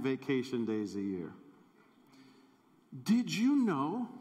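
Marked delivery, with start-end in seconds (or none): 3.0-4.1 excited reveal. Real, not acted. Punchline reveal of the math.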